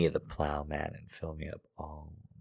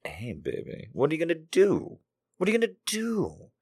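flirty DM voice; 12 semitones higher than usual. Pretend. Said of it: "I'm like".

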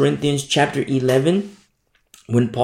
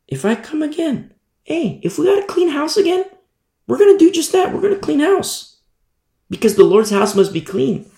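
rising preaching fervor; 13 semitones higher than usual. Real, not acted. Preacher stirring up his congregation, fervent and climbing. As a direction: build up like a preacher hitting his stride.

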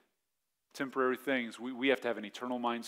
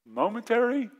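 higher, louder mock disbelief; God scoffing; 8 semitones higher, 8 dB louder than usual. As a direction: scoff at the small complaint. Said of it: "God's like".

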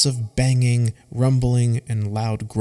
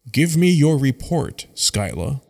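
stern but compassionate; 3 semitones higher than usual. Acted. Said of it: "speaks in a stern but compassionate voice".

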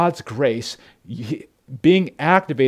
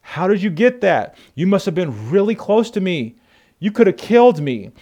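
higher, startled Saul; a lightly voiced shocked Saul; 6 semitones higher than usual. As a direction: play the king caught off guard. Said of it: "And Saul goes".

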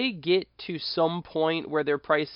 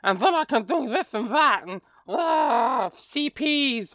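higher, mocking whiny gamer voice, ticking off list perks; mocking list-obsessed gamer; 9 semitones higher than usual. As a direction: send up an excited list-builder with a higher, sneering tone. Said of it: "It typically bores me to discuss lists".

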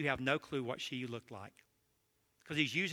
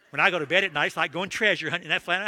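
louder, hammed-up old codger bragging; mock old codger boast; 3 semitones higher, 10 dB louder, faster than usual. Old codger bragging to the preacher about his wife's gown, louder. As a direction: crow it like a cheeky old man.

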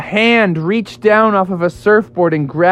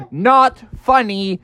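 unamused; 4 semitones higher, slower than usual. Acted. Frog annoyed at the prank.

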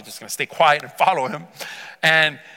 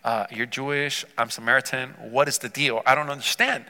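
hushed, low-key mock bewilderment; understated, softer puzzled voice of someone thrown; shocked bewilderment; 4 semitones lower, 5 dB quieter than usual. Woman startled that a Jewish man addresses her, quietly bewildered. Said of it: "she's in shock".

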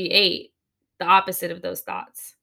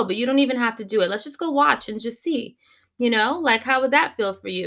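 soothing parent; 3 semitones higher than usual. Retold or imitated. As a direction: coax a sulking toddler kindly. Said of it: "You are gonna look at that child and go".

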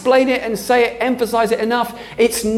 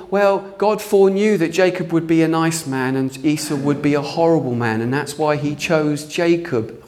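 lower, mocking voice of the false view; mock argument; 5 semitones lower than usual. Preacher parodying a theology he rejects, lower mocking voice. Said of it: "this whole".

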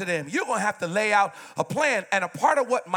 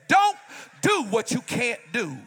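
mock harsh shout; 4 semitones higher than usual. Man shouting a bad singer down, mock harsh. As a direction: bark it like a blunt man. Mocking men's harsh verdict.

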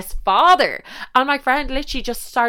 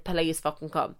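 pleading whisper; 3 semitones lower, 7 dB quieter than usual. Retold or imitated. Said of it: "and I was like".

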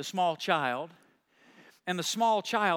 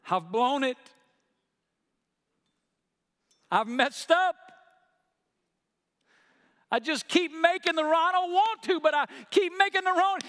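retold weeping; 10 semitones higher, 4 dB louder than usual. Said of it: "only words that I could hear".

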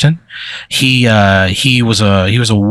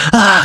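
short, higher-pitched mock scream of pain; acted scream; 11 semitones higher than usual. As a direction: yelp as if bouncing painfully. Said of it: "he screams when he bounces".

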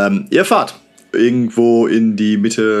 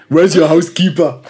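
put-on German-American accent; 3 semitones higher than usual. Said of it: "wie macht man einen Deutschen nach, der jetzt einen amerikanischen Akzent hat".

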